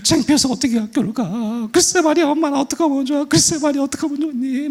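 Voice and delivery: high, hammed-up tearful wailing; sob-sing the lament in a very high voice; crying together. Mother and daughter lamenting school together, mock bawling. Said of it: "막 두 사람 막 울기 시작합니다".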